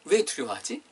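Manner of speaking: 갸우뚱하듯 묻는; 이해 안 된다는 듯 묻기; 의아한 질문. Acted. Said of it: "고개를 갸우뚱하시면". (고개 갸우뚱하는 주님, 의아하게 묻는 말투)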